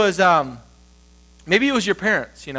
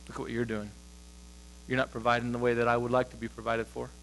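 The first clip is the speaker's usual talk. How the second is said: imagined wife's criticism; 8 semitones lower, 13 dB quieter, faster than usual. Acted. Wife's implied criticism heard inside.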